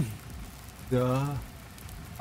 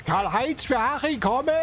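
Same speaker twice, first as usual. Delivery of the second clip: to someone hard of hearing; 5 semitones higher than usual. Real, not acted. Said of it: "Du musst lauter reden". (lauter und deutlicher wiederholt)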